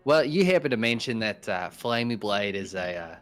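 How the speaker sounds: upbeat put-on Aussie accent; casting in an Aussie accent. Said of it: "my Aussie accent".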